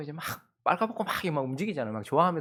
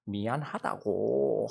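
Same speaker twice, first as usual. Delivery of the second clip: acting unbothered; 5 semitones lower, 4 dB quieter, much slower than usual. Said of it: "아무렇지도 않은 척".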